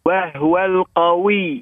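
وهو القوي with the waw doubled properly; doubled waw said right; student recites the doubled waw correctly; correct shaddah. Real, not acted. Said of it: "أحسنت".

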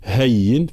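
"هين" with a firmly doubled y; clear shadda. Shown as a demonstration. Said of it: "بيان تشديد الياء". (تشديد الياء في "هين")

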